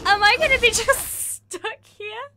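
high, loud pleading wail; exasperated cry. Real, not acted. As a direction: cry out at the unfair game. Game won't let her run.

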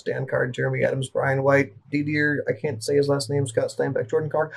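one long breath, listing fast; all in one breath. Shown as a demonstration. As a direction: rattle off the names without breathing. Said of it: "So I can do it in one breath".

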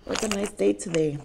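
chewing while talking; muffled through food; mouth full. Real, not acted. Seen 0: cheeks and lips show chewing between bites of noodles.

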